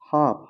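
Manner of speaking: हाफ said with no l sound; silent l. Shown as a demonstration. Teacher warning students not to say हाल्फ. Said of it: "हाल्फ मत पढ़िएगा".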